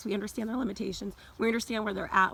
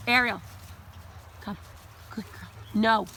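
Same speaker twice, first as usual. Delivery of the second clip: calling out; 4 dB louder than usual. Real, not acted. Recall with praise.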